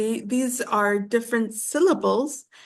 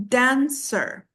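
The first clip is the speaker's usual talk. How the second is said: "dancer" split slowly into its two syllables. Shown as a demonstration. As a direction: say "dancer" in two separate beats, dan-cer. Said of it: "two syllables".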